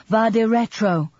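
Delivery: high, loud, drawn-out warding cry; nun's cry. A narrator's reading. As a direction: shout it slowly like an exorcism. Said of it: "and then another and another".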